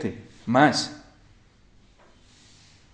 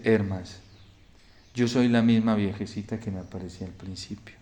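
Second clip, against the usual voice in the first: hushed solemn revelation; 3 semitones lower, 6 dB quieter than usual. Retold or imitated. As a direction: reveal who she is in a grave hush. La doncella se revela a Hermas. (revelación solemne en voz baja)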